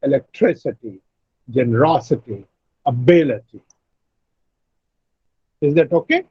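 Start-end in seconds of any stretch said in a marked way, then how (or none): 0.0-3.6 electricity, generosity, ability each said with the third syllable from the end stressed, falling low. Shown as a demonstration. Teacher recapping the three words for students. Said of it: "the pronunciation will be electricity".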